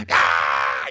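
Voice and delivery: mock wail of grief; imitated grieving scream. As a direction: cry out like a dramatic mourner. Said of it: "grieve like your mama".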